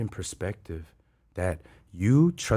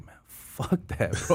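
defiant refusal; 6 semitones higher than usual. Retold or imitated. Man recounting his reaction to the pastor's task, defiant. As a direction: stretch out the dismissal in mock defiance.

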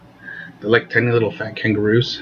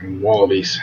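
lower-pitched Aussie demo of the word; Australian accent; 4 semitones lower, slower than usual. Shown as a demonstration. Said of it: "with an Australian accent and be like".

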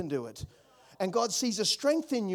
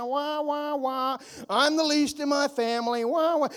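mock whining; 4 semitones higher than usual. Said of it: "he gives reasons".

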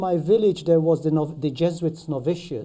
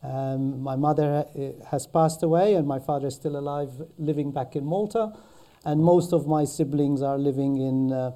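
Maltese accent. Real, not acted. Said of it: "a Maltese accent".

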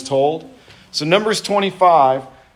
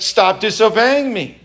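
mock angry master; 7 semitones higher, 3 dB louder than usual. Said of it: "He goes".

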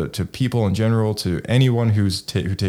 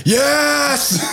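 high, thrilled mock cheer for Vader; excited yes. Fan reliving the episode, high excited cheer. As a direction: squeal the yes like a fan at the screen. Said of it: "I was like".

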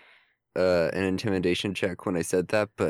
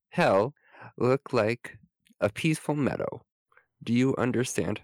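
hammy stage actor; 3 semitones higher than usual. Acted. Wizard threatens the dad.

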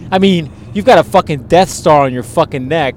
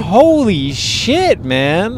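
slow amazed; 4 semitones higher, much slower than usual. Retold or imitated. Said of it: "It's like".

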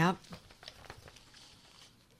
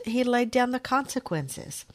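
usual speaking voice

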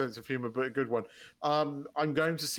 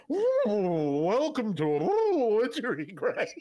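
hammed-up high, louder oohs; a mock welcome to the depths, higher and louder; mock Titanic passenger; 8 semitones higher, 4 dB louder, much slower than usual. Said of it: "This is my impression of the people".

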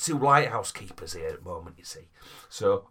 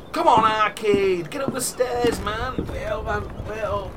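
yelling across the room; 10 semitones higher, 7 dB louder than usual. Acted. Calling mate up the stairs.

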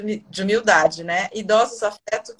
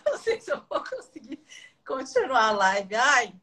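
emotional. Real, not acted. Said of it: "tá muito emocionada essa live".

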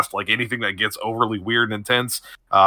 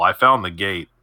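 shaky voice; 3 dB louder than usual. Acted. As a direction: voice trembling and unsteady. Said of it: "shaky voice".

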